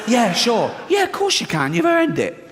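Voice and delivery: high, mocking yeah of course; sarcastic reply. To the big passenger, a high sarcastic yes.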